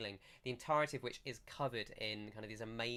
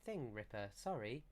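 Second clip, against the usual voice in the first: high, light voice of a villager declining; apologetic druid; 7 semitones higher than usual. Acted. Druid asked to heat a bath, high apologetic refusal. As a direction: beg off in a small, high voice.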